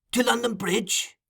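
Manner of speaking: high, slow leading question; Fagin, interrogating. A narrator's reading. Fagin questioning Noah, high and deliberate. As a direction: draw out the question pointedly.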